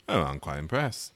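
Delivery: put-on lightly done Cockney-style British accent; hint of a British actor impression, low-key; Michael Caine. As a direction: try a dry British accent. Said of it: "That was my solid Michael Caine impression".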